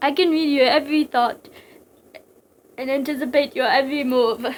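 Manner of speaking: lightly theatrical villain boast; a touch of ominous pomp; boastful psychic villain. Acted. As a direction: declare it as a mild threat.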